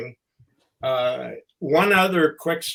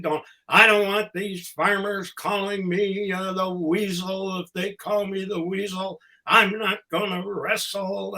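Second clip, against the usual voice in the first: higher, worked-up whining protest; mock excited; 4 semitones higher than usual. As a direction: imitate a manager getting all riled up. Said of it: "he'd get all excited".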